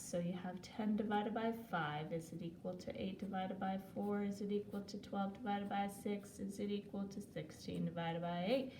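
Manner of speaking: rattled-off run of repeated questions; auctioneer-like. Real, not acted. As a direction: reel off the sums in an even, rolling chant, lightly like an auctioneer. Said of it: "I sound like an auctioneer".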